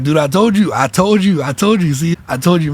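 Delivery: insistent I-told-you-so, repeated with lifted pitch; retold vindication. The speaker tells homegirl the reading was right, mildly triumphant. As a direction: replay a triumphant reply, driving it home. Acting own triumphant reply to friend.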